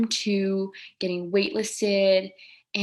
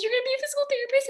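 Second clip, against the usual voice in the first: mom's astonished question; much faster than usual. Retold or imitated. Mom repeats the news.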